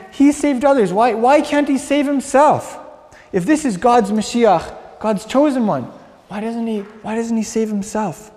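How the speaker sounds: high sneering mockery, slowed; mocking jeer. Mocking leaders jeer at the crucified rabbi, high and sneering. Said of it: "catcalling and mocking the itinerant Rabbi".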